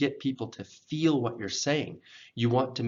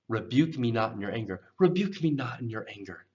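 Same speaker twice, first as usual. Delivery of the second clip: pleading request. Shown as a demonstration. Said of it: "It's almost like a, a request".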